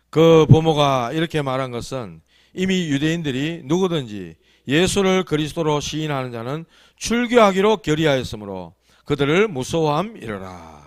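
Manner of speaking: measured Bible reading aloud; scripture reading. Acted. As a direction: read the verse out formally to a congregation. Reads scripture aloud to congregation.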